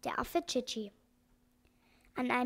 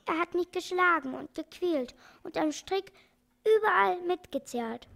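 in tears; 4 semitones higher, 3 dB louder than usual. Acted. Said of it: "erzählte das Äffchen unter Tränen".

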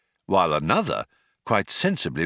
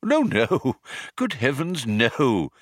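put-on high-pitched old man's protest; old man hastily setting him straight; exclaiming old man; 3 semitones higher than usual. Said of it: "exclaimed the old man".

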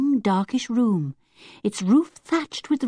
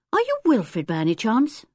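polite; 4 semitones higher than usual. Acted.

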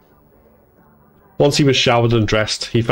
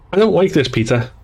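higher-pitched little whine, falling away; child's whine; 7 semitones higher than usual. A narrator's reading. Becky telling her brother she dislikes this, whining. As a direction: complain like an unhappy little sister. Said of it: "Becky's voice raised to a whine".

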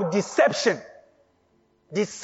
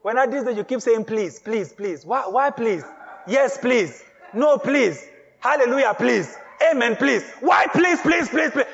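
mock puzzled onlooker. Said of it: "And people start saying".

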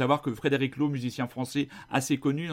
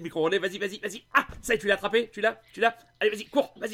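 cheering; 6 semitones higher, much faster than usual. Pretend. Cheering a pretend relay runner.

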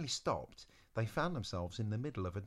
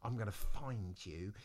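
mock threat; 2 semitones higher than usual. Eliza's threat building.

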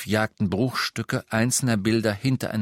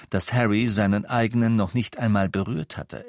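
usual speaking voice

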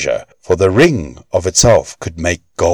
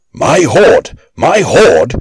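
high, louder cry of loss; dwarf shouting; 8 semitones higher, 4 dB louder, slower than usual. A narrator's reading. Dwarf crying out to Loki over his lost hoard, high and loud. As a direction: wail it out for his treasure. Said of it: "the dwarf shouted".

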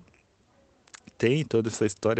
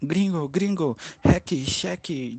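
put-on Rio accent; 7 semitones higher, slower than usual. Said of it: "sotaque de carioca".

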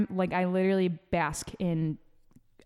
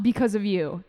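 whispered confession; whispering. Real, not acted. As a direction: whisper it like a secret. Confiding quit pre-workout.

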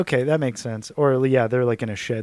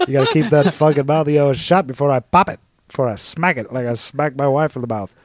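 louder Southern menace; Southern boss silencing Jerry, louder Southern accent; southern boss threat; 4 dB louder than usual. Pretend. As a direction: snarl it like a bullying boss. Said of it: "he's like".

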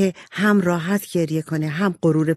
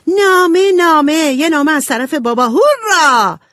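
much higher and louder, bursting with joy; excited shout; 11 semitones higher, 7 dB louder than usual. A narrator's reading. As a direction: yell it out in delight. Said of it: "داد زد".

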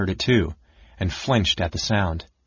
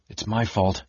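blubbering; 4 dB quieter than usual. Acted. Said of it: "Caramon began to blubber, his voice breaking".

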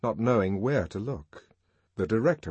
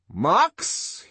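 high, loud formal summons; impressive address; 10 semitones higher, 6 dB louder than usual. A narrator's reading. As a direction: pronounce the name like a judge. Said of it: "he turned impressively to Bernard".

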